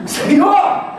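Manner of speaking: high, hammed-up mock cry; Marta. Martha calls to the Lord from the kitchen, mock cry. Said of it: "ela grita lá".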